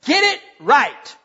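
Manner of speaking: slow, firm "Get it right"; firm rebuke. Acted. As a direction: say it as a steady warning. Pastor voices God's rebuke.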